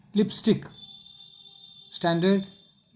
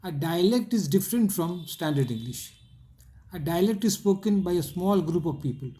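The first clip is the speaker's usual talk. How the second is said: reads the English line very slowly for notes; slow dictation; much slower than usual. Shown as a demonstration. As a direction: dictate each word slowly and clearly. Teacher dictating English text slowly.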